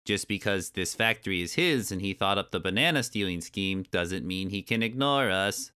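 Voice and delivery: lightly voiced giant bee, complaining; a hint of a grumbling creature; bumblebee character. Bee complaining about the boss, lightly voiced grumble.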